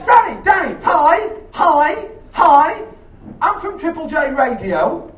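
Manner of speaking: high, loud and eager; excited greeting. Retold or imitated. Radio woman rushing up to greet the comic, high and eager. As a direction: gush at him like a fan.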